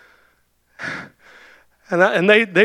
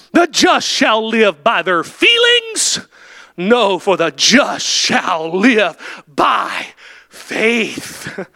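preaching at full force; much slower than usual. Acted. Preacher to his congregation, slow shouted declaration. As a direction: proclaim each word to the back pew. Preacher correcting himself loudly.

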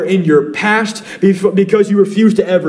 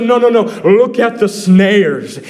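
God correcting; 2 semitones higher than usual. Retold or imitated. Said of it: "He said".

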